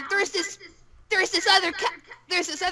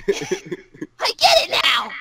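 loud, drawn-out "I get it now"; triumphant realisation; 2 semitones lower, 5 dB louder, much slower than usual. Acted. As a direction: stretch the realisation out slowly and loudly. Repeats realisation, louder, drawn out.

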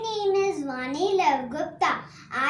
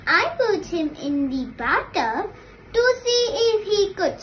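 poem recitation; 3 dB quieter than usual. Real, not acted. Class one pupil recites turtle poem, singsong recitation. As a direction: recite it like a nursery rhyme. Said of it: "My poem is about a little turtle".

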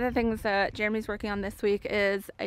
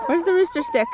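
calling out; 8 semitones higher, 8 dB louder than usual. Real, not acted. Calling out across the yard.

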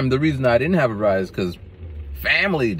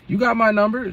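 much higher, eager offer; the instructor's kind question; high caring voice; 4 dB louder than usual. Retold or imitated. Instructor asking.

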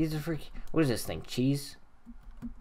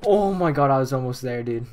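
frustrated yell; 6 dB louder than usual. Real, not acted. Near miss in parkour.

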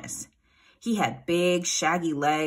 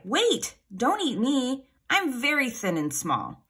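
high-pitched little goat pleading; storybook fright in a small, high voice; frightened cry; 6 semitones higher, slower than usual. A narrator's reading. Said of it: "he cried".

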